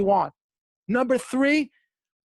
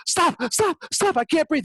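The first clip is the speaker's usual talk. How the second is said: begging to stop; 6 semitones higher than usual. Retold or imitated. Drowning man begging to stop.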